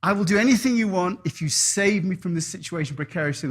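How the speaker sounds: desperate prayer. Acted. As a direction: beg God to rescue you. Man on roof praying to God.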